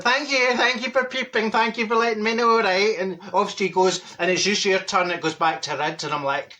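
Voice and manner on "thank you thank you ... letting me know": mock thanks. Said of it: "She goes through the lights and waves, like".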